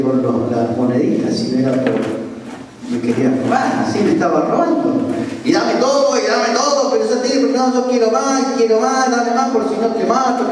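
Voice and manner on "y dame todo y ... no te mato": lightly voiced robber, higher pitch; insistent mock demands, pitched up; demanding robber. Robber threatens the pastor for more money, lightly acted demanding.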